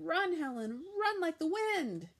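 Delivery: high, loud urgent cry; girl screaming at grandma to run; urgent yell. A narrator's reading. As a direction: urge her to flee. Panicked child urging grandma.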